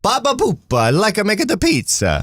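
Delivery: high, goofy mock Baltimore accent; a silly stab at Baltimore talk; hammed-up fake Baltimore accent, pitched high; bad Baltimore impression. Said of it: "Here's my best Baltimore impression".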